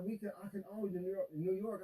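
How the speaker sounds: mocking Dre's bragging. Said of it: "And he's just like".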